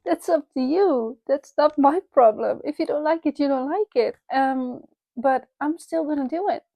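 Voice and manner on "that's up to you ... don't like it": higher, shrugging off critics; defiant. Real, not acted. To critics of her accent, breezily defiant. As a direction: brush off the haters, unbothered. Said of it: "with me feeling powerful".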